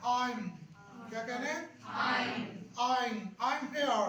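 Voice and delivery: I'm said as one syllable, aim, clearly stressed; contracted I'm. Shown as a demonstration. Teacher drills students on saying I'm here. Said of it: "pronounce आप ये करें I'm".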